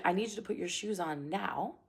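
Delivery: firm, unhurried instruction; like you mean it. Shown as a demonstration. Parent telling a child to get shoes on, firm. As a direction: say it as an expectation, no pleading. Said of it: "Say it like you mean it".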